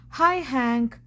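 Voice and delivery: bright, loud call across the desert; cheery greeting called out. Acted. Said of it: "called out".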